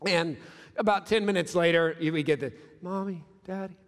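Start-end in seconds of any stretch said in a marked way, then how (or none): 2.8-3.8 escalating calls. Retold or imitated. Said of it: "that escalating tone".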